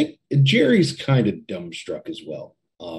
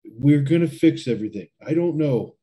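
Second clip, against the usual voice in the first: higher, louder, overwhelmed insistence; flustered desperation; 5 semitones higher, 4 dB louder than usual. Acted. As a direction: insist desperately, pitch climbing. Jerry flustered, reassuring Ben under pressure.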